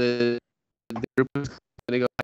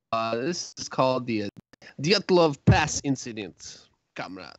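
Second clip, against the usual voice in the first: put-on Russian accent. Podcaster introducing a Soviet mystery, put-on Russian accent. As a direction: play up a comic Russian accent. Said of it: "Should I do the Russian accent".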